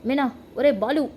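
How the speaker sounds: calling names loudly across the house; angry mother-in-law shouting for them. Acted. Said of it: "గట్టి గట్టిగా అరుస్తూ".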